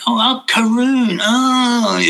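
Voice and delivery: high, slow imitation of the guru calling the name; drawn-out high guru voice; lightly imitating the guru's voice. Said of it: "You know what he, what he sounded like".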